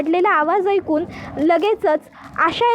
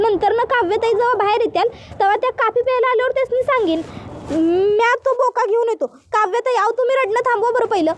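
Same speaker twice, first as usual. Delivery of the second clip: higher, anxious rustic maid asking what happened; village maid voice; 4 semitones higher than usual. Acted. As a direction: play the worried housemaid in dialect. Asha's long explanation.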